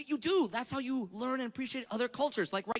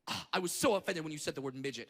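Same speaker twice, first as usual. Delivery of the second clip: offended woman; 7 semitones lower than usual. Retold or imitated. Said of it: "angry, pissed off".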